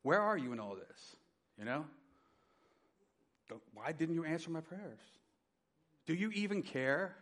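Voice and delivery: pleading, rising to a high anguished cry; anguished plea, pitch rising toward the end; crying out to God. Retold or imitated. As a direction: beg God for an answer, voice climbing. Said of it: "crying out".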